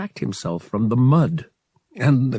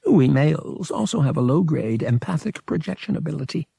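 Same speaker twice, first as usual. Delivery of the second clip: alien priest voice; 6 semitones higher, faster than usual. Acted. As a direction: play a smug alien priest. Verotil continues.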